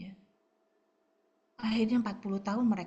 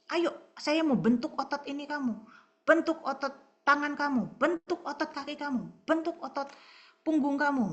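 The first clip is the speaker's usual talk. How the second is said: lightly voiced pushy trainer, a bit higher; a hint of a coach barking orders; fitness coach; 5 semitones higher than usual. Preacher voicing God as a fitness coach, mildly commanding. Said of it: "Seperti pelatih olahraga, pelatih fitness gitu".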